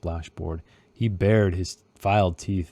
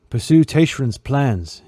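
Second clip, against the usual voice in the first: slow, louder order; commanding Quick Ben; 5 semitones higher, 5 dB louder, slower than usual. A narrator's reading. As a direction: give the order hard and slow. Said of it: "he commanded".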